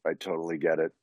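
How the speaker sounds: deadpan monotone, barely excited. Retold or imitated. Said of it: "everything is monotone".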